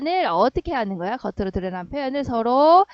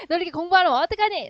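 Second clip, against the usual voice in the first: quick, higher-pitched mock scolding; exasperated inner scolding; 6 semitones higher, faster than usual. Parent's hidden thought about poor studying, exasperated inner scolding. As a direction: fret and scold in a rush. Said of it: "라는 속마음이 더욱더 강조되는".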